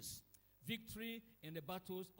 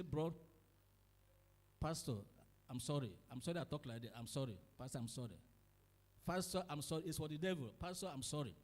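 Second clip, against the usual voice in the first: lower, pleading sorry; a humbled brother begging the pastor; apologetic brother; 5 semitones lower, faster than usual. Acted.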